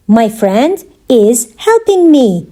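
slow, with pauses around "is"; measured word-by-word delivery; slow teaching repeat. Shown as a demonstration. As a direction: separate each part for learners. Teacher repeats answer slowly for learners.

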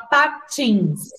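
"patins" parted lightly into pa and tins; split into syllables. Shown as a demonstration. Teacher asks how often the mouth opens, "patins" in separated syllables. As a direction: sound out "patins" in two beats. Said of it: "Como que a gente vai separar?".

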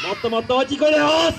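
fast and high, stress on "声"; big rally shout. Acted. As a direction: whip the crowd into yelling.

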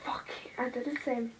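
whispered curse. Real, not acted. Swearing at a mistake.

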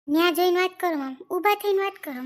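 loud angry order; angry outburst. Acted. Wife telling husband off during quarrel, loud and angry. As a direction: bark it at him to go away. Couple quarrel at in-laws' house.

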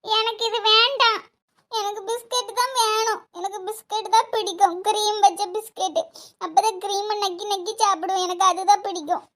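put-on mild small-child whine; whining like a child. Child demanding cream biscuits, whining. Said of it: "சின்ன குழந்தை மாதிரி அழுதுட்டு இருக்காவோ".

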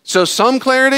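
high, loud and slow, overpronounced; comic Jesus half shouting, slow and high; mock shouting Jesus. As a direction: talk to him like he's hard of hearing. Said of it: "I can hear Jesus look at the disciples and go".

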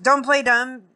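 high, impatient retort; retold accusation. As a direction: imitate an accuser cutting off excuses.

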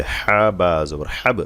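slow, drawn-out letters then হাব with a bounced b; spelling-out recitation. Shown as a demonstration. Teacher showing students how to practise, slow letter-by-letter recitation of হাব. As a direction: spell out হা বা জবর slowly, then release হাব. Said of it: "এভাবে".

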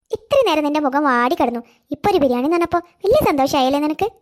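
put-on a fond elderly neighbour, coaxing; kindly old neighbour woman. Neighbour teases the cheered child. (സ്നേഹമുള്ള പ്രായമായ അയൽക്കാരി, താഴ്ന്ന ശബ്ദത്തിൽ)

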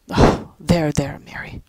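hushed comfort; soothing whisper. Acted. Father soothing his crying wife in a whisper. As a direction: whisper there there to calm her.

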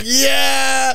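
high, far-flung whoop; retold excited cheer. Host high-fives the older lady, retold cheer.

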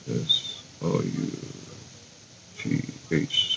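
very soft, slow letter-by-letter murmur to self; half-whispered spelling while typing; spelling under breath. Real, not acted. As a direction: spell it out slowly, barely voiced.

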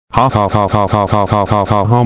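mechanical, evenly repeated "ha"; mock laugh. Narrator acting out his rampage, mechanical mock laugh. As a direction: stiff looping laugh with no mirth.

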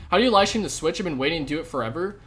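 loud, high, fast asking; excited viewer voice. Pretend. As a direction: burst out like a fan who can't wait. Reading out a viewer's chat question.

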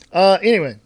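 ordinary talk, nothing marked

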